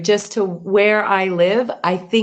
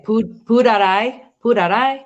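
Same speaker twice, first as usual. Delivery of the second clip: Southern Thai rise; 4 semitones higher than usual. Retold or imitated. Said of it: "What did you say?".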